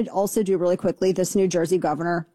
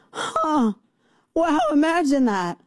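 high mock-surprised voice; sarcastic; 8 semitones higher, slower than usual. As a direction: fake amazement, dripping sarcasm. Mocking the waiting period logic.

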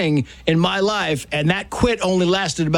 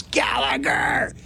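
slow, higher shouted orders across the field; coach screaming; 6 semitones higher, 3 dB quieter, much slower than usual. Retold or imitated. Coach screams at a late eight-year-old, slow shouted orders. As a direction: bellow it at a late kid fifty yards off.

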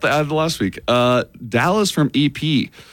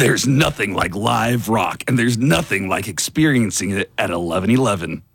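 monster truck ad; 2 semitones lower than usual. Shown as a demonstration. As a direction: growl it like a rock concert ad. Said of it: "I didn't know you had that voice in you".

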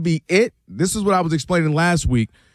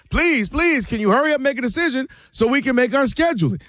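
mock plea, pitched higher; begging and pleading; 5 semitones higher than usual. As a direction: imitate someone pleading for a quick decision. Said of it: "begging and pleading".

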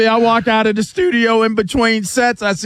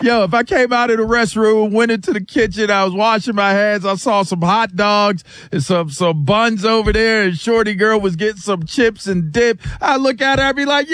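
hyped party routine. Pretend. Hyped imagined pool party routine.

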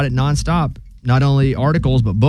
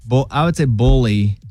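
Southern bully. Shown as a demonstration. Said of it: "that's Southern accent".

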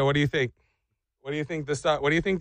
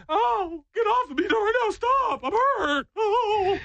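high, pained whine at the dogs; a much higher, wounded complaint; whiny hurt fall victim; slower than usual. Retold or imitated. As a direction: squeal like a hurt klutz pushing dogs off. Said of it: "And you're like".

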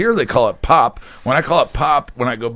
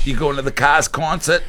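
mock Boston accent; 4 semitones higher than usual. Shown as a demonstration. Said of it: "That's how they say it in Boston".

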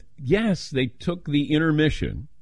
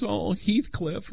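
swooning wife imitation; 8 semitones higher, 4 dB quieter, slower than usual. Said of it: "And she goes".

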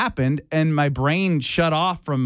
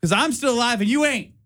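taunting bee voice; 6 semitones higher than usual. Retold or imitated. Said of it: "was like".

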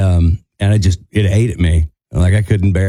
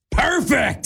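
mock praise; 14 semitones higher, 5 dB quieter than usual. Hank hugging him after show.

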